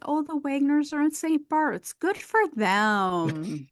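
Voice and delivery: put-on slow, prim old-retiree tone; mock grown-up chatter. Host imitating kids who talk like retirees, slow and prim. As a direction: sound like a bored retiree.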